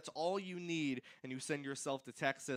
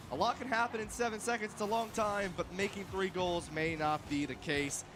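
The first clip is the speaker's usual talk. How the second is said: excited; 3 dB louder than usual. Real, not acted. Late-game live call, clock running.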